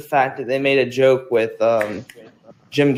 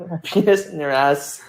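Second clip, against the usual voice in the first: laughing quote. Retold or imitated. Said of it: "saying it with a thick accent".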